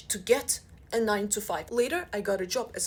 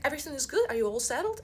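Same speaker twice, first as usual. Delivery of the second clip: a hint of bright higher HR voice; chirpy HR woman; 5 semitones higher, faster than usual. HR checking on the new hire, lightly chirpy. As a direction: chirp it like cheery HR. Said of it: "She's like".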